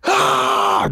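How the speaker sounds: breathy, voiceless mock scream; crowd scream, imitated. Crowd turns and sees the star, mock scream. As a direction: imitate screaming fans without full voice. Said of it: "They start screaming".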